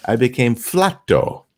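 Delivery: slow, careful broken Spanish; a slow, self-assured attempt at Spanish; earnest mock Spanish. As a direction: say it proudly, not knowing the joke. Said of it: "And I said".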